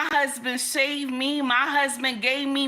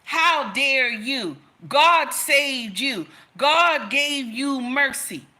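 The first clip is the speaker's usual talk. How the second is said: mock offended sisters; slower than usual. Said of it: "they immediately get upset".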